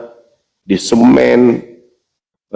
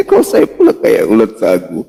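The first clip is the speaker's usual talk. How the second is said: laughing; 5 semitones lower than usual. Real, not acted. Amused at a comeback.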